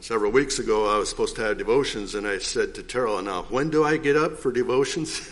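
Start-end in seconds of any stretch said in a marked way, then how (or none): 3.2-5.2 amused, laughing through the question; laughing at himself. Retold or imitated. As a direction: chuckle while asking, poking fun at yourself. Retelling own confused question, laughing.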